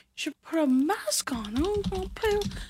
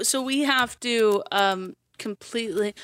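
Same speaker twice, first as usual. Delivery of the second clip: normal talking voice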